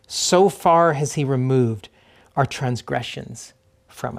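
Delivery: measured psalm reading, pausing after each phrase; slow scripture reading. Real, not acted. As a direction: read slowly so listeners catch the feel. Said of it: "I'm gonna read it twice slowly".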